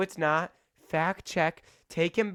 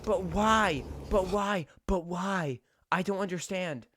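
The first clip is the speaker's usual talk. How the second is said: baffled disbelief; 4 semitones higher than usual. Real, not acted. Baffled by explorers.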